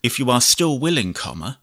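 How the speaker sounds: measured dictation, punctuation spoken aloud; slow dictation with punctuation. Shown as a demonstration. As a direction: dictate to the computer, clear and even. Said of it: "I'll do some basic dictation".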